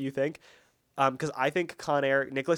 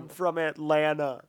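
slow mock Southern Con Air drawl; slow Southern accent like Cage in Con Air. Friend imitates Cage's Con Air Southern accent. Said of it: "I'm Nicolas Cage in Con Air".

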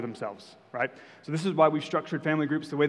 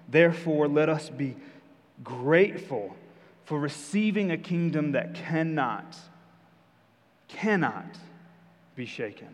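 scripture reading. Acted. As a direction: reread the verse and lean on cannot. Rereads scripture aloud.

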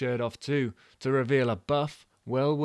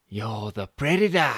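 louder, urging; lightly voiced Jen; Jen's whisper in her ear; 5 dB louder than usual. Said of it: "said Jen Affleck again in her ear".

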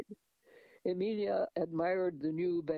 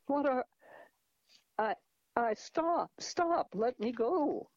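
frightened pleading; 7 semitones higher than usual. A narrator's reading. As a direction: beg him to let go in fear. Grabbed by a stranger.

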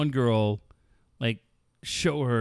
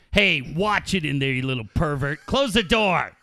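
retold movie bully order, building; 2 semitones higher than usual. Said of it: "Michael Madsen's taking down his wife".

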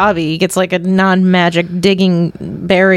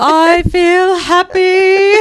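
high, long-drawn comic singsong; protesting not-dead man; 10 semitones higher, much slower than usual. Acted. Man about to be buried protesting, comic high voice. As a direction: stretch it out high, absurdly cheerful.

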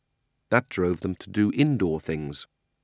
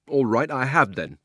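louder, defiant admission; much louder voice; 5 semitones higher, 6 dB louder than usual. Acted. Miserable boy admitting to Polly he cried, much louder. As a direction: blurt it out loud, not caring who hears. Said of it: "in a much louder voice".

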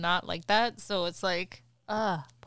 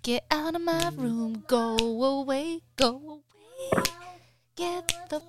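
exasperated parental scolding; 3 semitones higher, 4 dB louder than usual. Real, not acted. Mother sending child to own bathroom, exasperated scolding.

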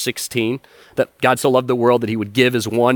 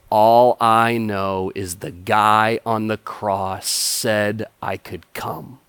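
simple, sure answer; 4 semitones lower, much slower than usual. Retold or imitated. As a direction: say it like it settles everything. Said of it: "without skipping a beat".

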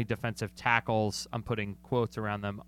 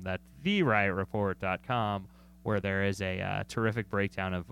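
game show host voice; 4 semitones lower than usual. Acted. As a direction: lower announcer plug voice, lightly. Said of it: "a game show host voice when you".

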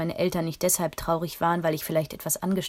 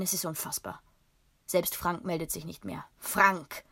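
growled angrily. Acted. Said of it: "knurrte er wütend".

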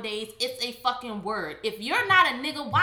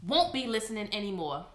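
reading like a rapper. Shown as a demonstration. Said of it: "you like a rapper when you read stuff".

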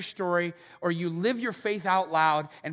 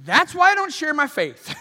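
loud, higher, fed-up cry; exasperated outburst; 7 semitones higher, 8 dB louder than usual. Retold or imitated. Listener reacting to Paul's story, loud exasperated outburst. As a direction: throw it out like a frustrated believer. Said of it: "you're thinking".

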